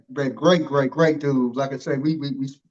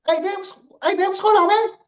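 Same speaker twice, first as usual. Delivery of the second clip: much higher, quick and eager greeting; high fast coach voice; 14 semitones higher, 3 dB louder than usual. Retold or imitated. Host imitating the coach walking up to greet him, high and fast. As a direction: chirp a hello like a wound-up coach. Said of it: "his voice real high pitched, and he talk fast".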